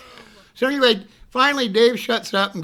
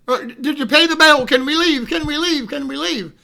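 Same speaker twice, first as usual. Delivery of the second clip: high, urgent repeated plea; anxious pestering; 6 semitones higher, 6 dB louder than usual. Retold or imitated. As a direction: imitate a jittery man begging to go. Hyper Dave begs to leave.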